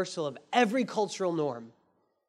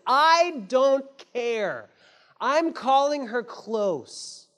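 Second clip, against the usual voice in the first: defiant declaration; 4 semitones higher, 3 dB louder, much slower than usual. Acted. Boaz defying social norms.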